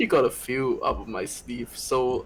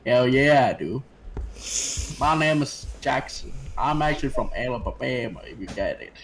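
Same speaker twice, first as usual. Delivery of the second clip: put-on Western US accent; Alabama-style accent demo; American West accent. Shown as a demonstration. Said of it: "know how to speak like the West".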